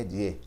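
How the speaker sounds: "die" said as the Spanish "ye"; name the letter Y as "ye". Shown as a demonstration. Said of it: "em espanhol".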